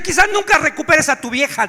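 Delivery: group leader scolding a crying newcomer; stern scolding. Retold or imitated. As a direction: tell him off, no sympathy. Leader scolds him from tribune.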